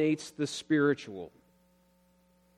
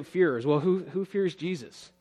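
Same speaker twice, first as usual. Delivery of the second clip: imagined listener; 2 semitones higher than usual. Retold or imitated. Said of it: "you're probably gonna say".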